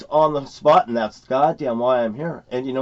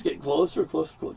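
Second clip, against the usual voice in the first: creeping closer; 5 dB quieter, faster than usual. Shown as a demonstration. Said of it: "Going like this".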